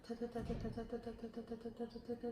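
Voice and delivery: "Ta" repeated as fast as possible; quick light "ta" taps of the tongue; rapid ta. Shown as a demonstration. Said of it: "as quickly as you can".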